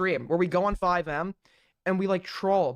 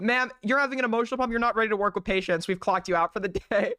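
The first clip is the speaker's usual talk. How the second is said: lightly voiced mock hospital manager, fast at first; mock hospital staff. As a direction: play the prim hospital boss telling her off, half laughing. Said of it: "this is R P".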